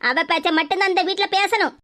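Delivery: a stern mother catching the two of them out; low, scolding mother's voice. Acted.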